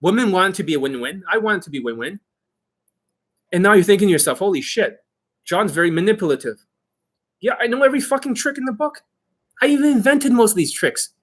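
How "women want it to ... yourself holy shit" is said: ordinary delivery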